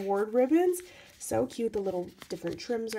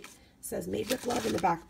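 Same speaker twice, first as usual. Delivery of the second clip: losing voice. Real, not acted. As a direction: voice going hoarse. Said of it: "am I losing my voice".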